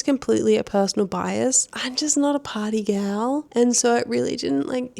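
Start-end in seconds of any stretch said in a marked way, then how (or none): 1.7-3.5 hushed admission; whispered confession. Real, not acted. Admitting she's not a party person, in a whisper. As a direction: whisper it like a little secret.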